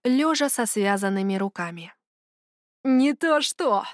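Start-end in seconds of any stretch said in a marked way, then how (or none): 2.8-3.9 smirking. A narrator's reading. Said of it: "усмехнулся самый неприятный".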